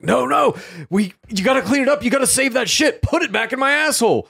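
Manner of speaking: squeaky high pleading voice; high whiny Chalamet plea; high mock voice. Acted quote of Chalamet's plea.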